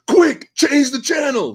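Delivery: high, slow put-on voice; mock quoted voice. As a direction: read the donor's line in a silly high voice. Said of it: "He goes".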